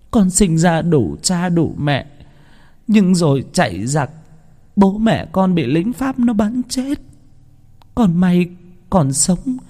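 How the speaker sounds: high, slowed grieving telling; tearful lament. A narrator's reading. Mother recounting her dead family to the old woman, tearful. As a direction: tell it through welling tears.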